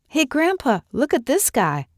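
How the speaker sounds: high-pitched proud show-off; excited, boastful call for attention; bragging. A narrator's reading. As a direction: show off your prize, pitched well up. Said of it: "I bragged".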